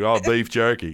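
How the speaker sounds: imitating an Australian saying it; put-on Australian accent. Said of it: "do a better Australian accent".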